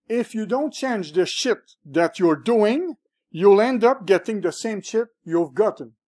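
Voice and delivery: harsh blunt quote. Retold or imitated. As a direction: mimic a tough mentor hammering the point home. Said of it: "nos hablaron hoy ... nos hablan duro".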